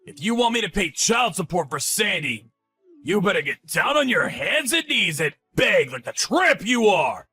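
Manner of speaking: angry yelling. Acted. Ex-husband threatening ex-wife.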